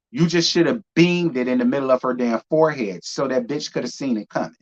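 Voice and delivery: normal talking voice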